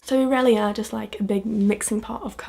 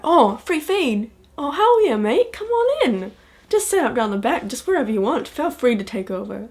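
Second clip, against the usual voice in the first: starts high and loud, slowed on the first words, then settles; hammed-up delighted local inviting you in; overeager Kiwi host; 3 semitones higher, 4 dB louder than usual. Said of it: "they'll just be like".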